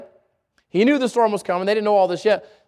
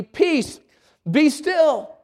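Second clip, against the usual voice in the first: commanding Jesus; 5 semitones higher, much slower than usual. Retold or imitated. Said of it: "and said unto the sea".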